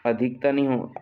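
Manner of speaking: नहीं hit firmly; a teacher stressing नहीं. Shown as a demonstration. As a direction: deny it with नहीं. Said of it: "आधिक्य तो नहीं होती".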